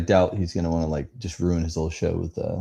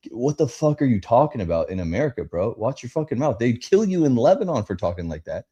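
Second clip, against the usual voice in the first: imagined rant; 3 semitones higher than usual. Retold or imitated. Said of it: "it was just like".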